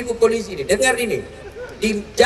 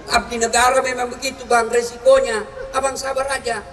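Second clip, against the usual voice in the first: soothing wife. Retold or imitated. Ideal wife comforting husband.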